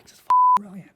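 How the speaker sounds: very high, loud, breaking into awe; mock elated squeal. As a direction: gush like you can't believe it. Retelling own elated reaction.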